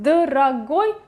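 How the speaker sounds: Дорогой, its unstressed o reduced to a neutral sound; in-between vowel. Shown as a demonstration. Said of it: "something in between".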